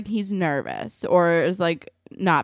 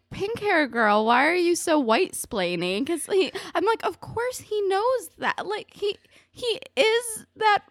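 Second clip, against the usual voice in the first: much higher, squealing with real amusement; laughing incredulity; 12 semitones higher than usual. Real, not acted. Podcaster mocking pink hair girl's white-splaining, laughing incredulously. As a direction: talk through laughter, pitched way up.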